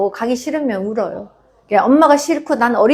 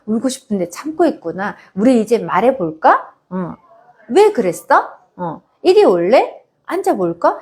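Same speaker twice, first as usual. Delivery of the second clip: coaxing mother. Shown as a demonstration. Mother inviting her upset toddler to sit and talk, coaxing. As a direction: coax the child over, sweet and inviting.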